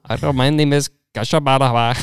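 mock Indian tech-support agent; comic Indian accent. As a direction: greet like an Indian call-center worker. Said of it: "like, tech support calls".

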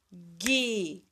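"Guitarrista" as gui, tar, ris, ta with long gaps; syllable by syllable. Shown as a demonstration. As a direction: draw out each syllable separately. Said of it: "Separa as sílabas".

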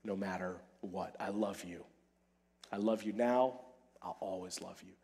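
soft, hushed promise to a wife, fading very low; tender vow. Acted. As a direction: hold her hand and promise it quietly. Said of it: "and say to her".

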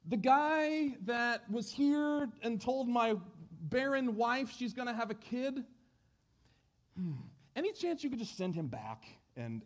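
lightly voiced timid husband praying; sheepish prayer. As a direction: ask God politely, a bit unsure. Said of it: "he prays".

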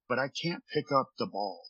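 soft imitated Latino accent. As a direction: quote a teammate in a Latino accent, quietly. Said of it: "in this awesome Latino accent".

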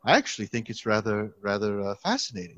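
light imitation of a British professor's accent; a hint of posh British professor. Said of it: "I'm gonna try to do a British accent".

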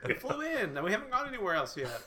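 laughing explanation to a doubting friend. Real, not acted. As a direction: defend yourself through laughter. Laughing defence of trip.

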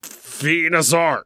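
slow drawn-out Pokemon cry; pull string toy. Pretend. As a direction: stretch the name slowly. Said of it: "practicing his animal sounds".

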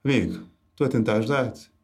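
a hint of a patronising helper; condescending tone. Retelling the examiner's words, lightly condescending. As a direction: say it kindly but talking down. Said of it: "aquele tom meio condescendente".

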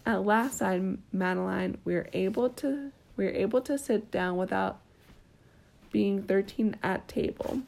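gentle bedtime story reading; storybook narration with small lilts; reading to a child. A narrator's reading. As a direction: read it like a picture book at bedtime. Reading a picture book aloud.

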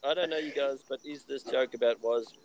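lightly put-on French accent. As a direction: read it with a hint of French. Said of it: "putting on a French accent was gold".

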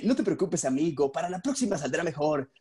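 lightly voiced friendly American-movie dub; dubbed movie voice. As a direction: console like a dubbed Hollywood film. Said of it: "hablando así de". (voz de doblaje de película gringa, ligera)

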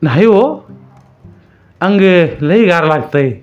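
high, urgent wife pleading; insistent worried wife. A narrator's reading. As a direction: push back anxiously. Wife insists child is cold.

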